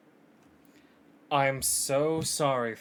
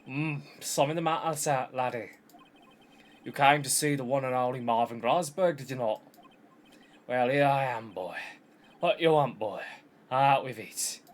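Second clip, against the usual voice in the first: blustering lawyer in wobbly Scottish; devolved Scottish. Acted. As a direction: play a self-important mock-Scottish boss. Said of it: "I think I've devolved Scottish".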